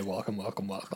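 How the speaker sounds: a soft, low muttered welcome; hushed warning quote. Retold or imitated. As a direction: say it softly as a forbidden phrase. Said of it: "do not say".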